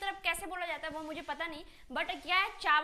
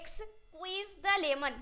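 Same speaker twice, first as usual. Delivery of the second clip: drawn-out demo; much slower than usual. Shown as a demonstration. Teacher models the phrase for students, slow and stretched. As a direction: squeeze the lemon stretched out very slowly. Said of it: "आपको खींच के बोलना है यहाँ पे".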